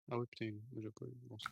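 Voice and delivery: talking through a hot mouthful; words round a burning bite of food; mouth full of hot food. Real, not acted. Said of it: "Ça brûle, ça brûle!".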